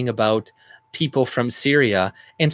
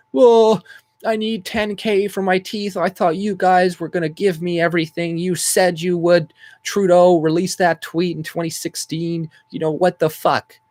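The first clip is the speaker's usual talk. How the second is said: mocking whiny voice; 6 semitones higher than usual. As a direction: drag it out like a spoiled complainer. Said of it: "are already".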